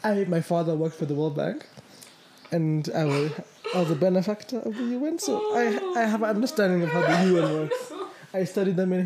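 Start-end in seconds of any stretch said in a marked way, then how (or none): 0.0-7.9 laughing. Real, not acted. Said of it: "That's not why you're reacting as you are".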